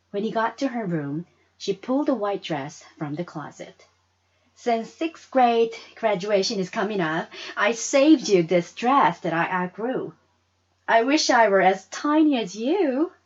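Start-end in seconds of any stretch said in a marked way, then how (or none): 4.5-13.1 put-on sweet girl. Friend offers her old dress.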